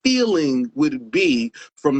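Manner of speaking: high-pitched, fervent testimony; impassioned. Real, not acted. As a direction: testify with rising fervor, stretching the key words. Impassioned recall of a tearful performance.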